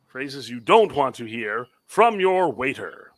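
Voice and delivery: booming game show announcer. Shown as a demonstration. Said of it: "That's my announcer voice".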